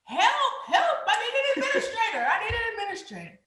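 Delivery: new teacher buzzing office in panic; mock panic. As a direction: babble for help, half laughing. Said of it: "So I'm buzzing the office".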